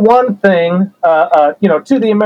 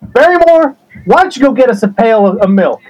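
dad calling out; 3 semitones higher than usual. Retold or imitated. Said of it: "Dad would say".

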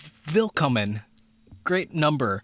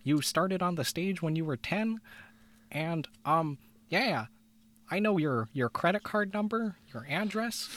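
Kermit; 5 semitones higher than usual. Retold or imitated. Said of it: "he pretty much says".

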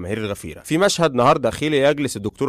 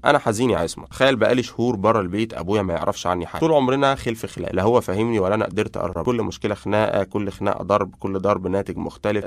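understated, subdued sadness; mildly acted gloom; dejected confession; 2 semitones lower than usual. Sad friend confides about his father.

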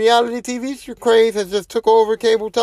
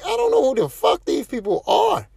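exasperated shout; 7 semitones higher than usual. Retold or imitated. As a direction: throw the line out in disbelief. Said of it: "I'm like".

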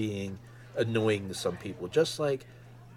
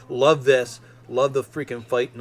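excited; 3 semitones higher, 7 dB louder than usual. Real, not acted. Gushing over favorite trailer shot.

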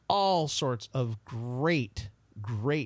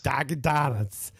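put-on northern accent; slower than usual. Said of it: "Northerners with your weird accents".

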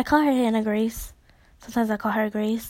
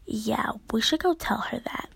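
whispering; 6 dB quieter than usual. Retold or imitated. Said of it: "we're literally dead agreeing".

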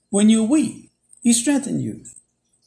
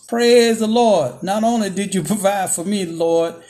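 mock shout; 3 dB louder than usual. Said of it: "She shouts".

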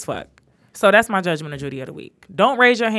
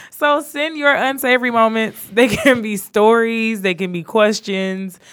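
put-on Jamaican accent; 3 semitones higher, 4 dB louder, slower than usual. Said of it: "bad Jamaican voice".

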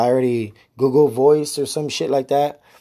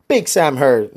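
signoff take one; 3 semitones higher, 4 dB louder than usual. Shown as a demonstration. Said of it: "Nah, I don't say it like that".

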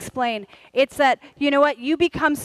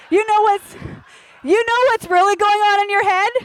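emphatic; 7 semitones higher, 4 dB louder than usual. Real, not acted.

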